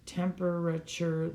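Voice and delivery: "Temperature" split into four beats; syllable by syllable. Shown as a demonstration. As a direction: sound out each syllable of "Temperature". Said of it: "that's four syllables".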